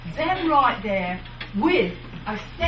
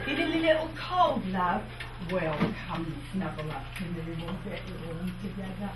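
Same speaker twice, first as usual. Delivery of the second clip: lower, much softer Cockney invitation; flirty Cockney; 6 semitones lower, 5 dB quieter than usual. Shown as a demonstration. Showing fair performers a cosy Cockney come-on, low and soft. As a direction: coax them close in Cockney, dropping the voice. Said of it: "we like to focus on is Cockney".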